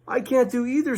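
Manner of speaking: stuck and fretting; distressed Pooh. Acted. Pooh stuck in the hole, high distressed voice.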